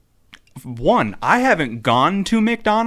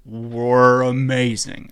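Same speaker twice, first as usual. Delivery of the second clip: drawn out; 5 dB louder, much slower than usual. Shown as a demonstration. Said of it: "How'd that go?".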